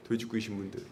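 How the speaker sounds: quiet low repeat of 돌직구이신 분들; a hushed aside to the congregation; soft aside. Shown as a demonstration. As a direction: murmur it back to yourself. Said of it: "좀 이렇게 돌직구이신 분들 있죠?".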